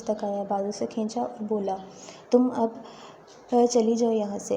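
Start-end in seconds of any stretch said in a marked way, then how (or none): 2.3-4.6 shouting. Acted. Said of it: "Mudassir نے چلا کر کہا".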